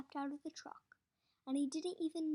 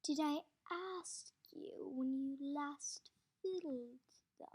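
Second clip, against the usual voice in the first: slow, near-whispered icy question; cold warden. Acted. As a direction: let the silence threaten.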